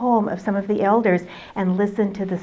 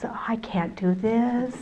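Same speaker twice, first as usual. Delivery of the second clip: whispered, slow, frightened; panicked whisper; 6 dB quieter than usual. Acted. Nervous young man to the elders, whispering in panic. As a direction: breathe it out in panic.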